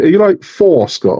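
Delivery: mock a wife's exasperated telling-off. Wife scolding husband over a modelling show, mock exasperated.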